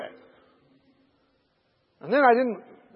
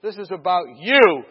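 prayer building to loud insistence; emphatic, mounting plea to God; pleading prayer; 8 dB louder, slower than usual. Retold or imitated. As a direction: start pleading, then punch each phrase louder.

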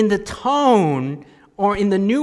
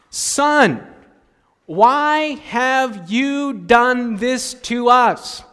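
drawn-out slow reproach; slow, pained, reproachful question; Mary scolding; 4 semitones higher, 4 dB louder, much slower than usual. Acted. Mary to her son after three days, reproachful. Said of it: "his mother said to him".

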